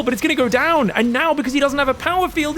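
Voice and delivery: ordinary talk, nothing marked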